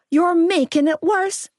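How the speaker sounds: high, strained yell. A narrator's reading. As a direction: snap at them through the pain. She screams at the pair.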